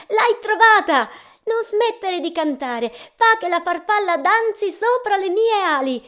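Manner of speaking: high, loud eager angel voice; a joyful angel begging him to keep singing; excited angel. A narrator's reading. (l'angelo, alto e gioioso, supplica di continuare a cantare)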